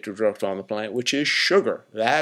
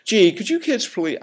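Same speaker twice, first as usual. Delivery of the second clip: mild polite request; 10 semitones higher than usual. Retold or imitated. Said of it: "I'm not talking".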